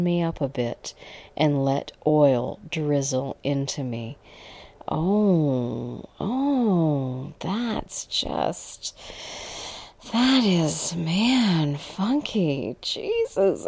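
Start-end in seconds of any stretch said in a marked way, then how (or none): 4.9-13.7 halting, broken-up words with pauses; stammering. A narrator's reading. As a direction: stumble through it, dazed. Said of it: "I stammered back at her".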